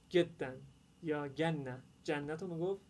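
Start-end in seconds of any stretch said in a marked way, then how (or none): 0.1-0.6 گدن opening on a hard g for jim; louder demo of Cairene گدن with hard g. Retold or imitated. Teacher gives Cairo example words, hard g pronunciation. 1.3-1.8 گنه as ganna, hard g for jim; Cairene hard g. Retold or imitated. Teacher gives another Cairo example, hard g pronunciation.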